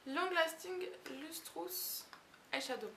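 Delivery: slow English product name read in a French accent. Real, not acted. Reading the English label aloud, slow French-accented English. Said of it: "Oui, super accent".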